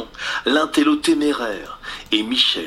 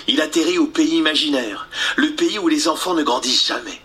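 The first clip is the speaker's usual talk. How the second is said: voix de gamin, un peu plus aiguë; jeune garçon; 4 semitones higher than usual. Acted. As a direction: raconter le pays imaginaire. Peter raconte sa vie. (Peter qui raconte)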